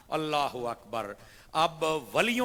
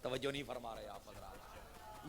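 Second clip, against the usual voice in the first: tag; 4 semitones lower, 15 dB quieter than usual. Real, not acted. Aside to inattentive audience.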